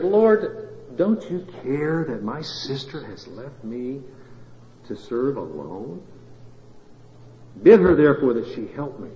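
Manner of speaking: slow, plaintive, drawn-out appeal; Martha's complaint. Acted. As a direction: voice the put-upon sister pleading with her Lord. Martha complains to Jesus, acted.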